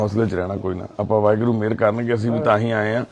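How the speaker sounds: low, consoling tone; steady a weeping elder gently; reassuring. Real, not acted. Consoling the crying old father.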